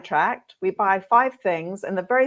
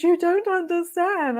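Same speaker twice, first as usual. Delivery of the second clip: earnest client; 10 semitones higher than usual. Retold or imitated. Client, tearful, insisting.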